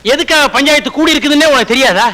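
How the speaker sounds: hammed-up tearful plea about the stolen bride; whiny crying. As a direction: wail it like a wronged man, half crying. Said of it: "நீ ஏன் அழுகுற?".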